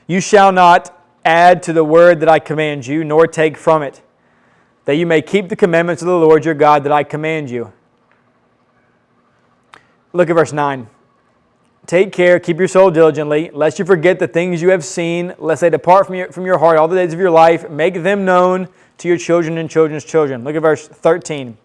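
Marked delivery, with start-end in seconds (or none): 0.1-7.7 emphatic, projected Bible reading; scripture reading. Acted. Preacher reading Moses' command to the congregation, emphatic reading. 11.9-20.4 firm, projected Bible reading; scripture reading. Acted. Preacher reading Moses' warning to take care, firm reading. Reads scripture aloud to congregation.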